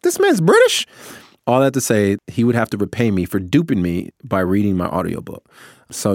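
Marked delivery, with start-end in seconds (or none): 0.0-0.9 loud, very high disbelieving question; mock incredulous outcry. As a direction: exclaim it sky-high, as if scandalized by the discovery. Retelling shock at actor's real accent.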